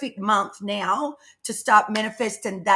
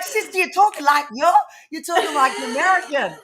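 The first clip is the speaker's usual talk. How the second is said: laughing mock scold; 4 semitones higher, 4 dB louder than usual. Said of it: "I'm like".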